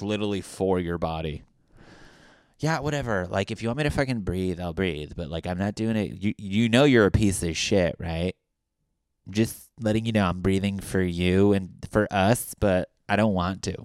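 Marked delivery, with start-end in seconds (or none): 2.6-13.8 put-on sulky sarcastic girlfriend.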